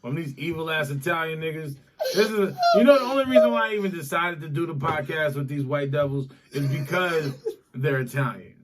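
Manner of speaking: hammed-up offended whining through laughs; laughing mock outrage. Pretending to be offended by his Italian co-hosts, laughing. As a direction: fake being hurt while cracking up.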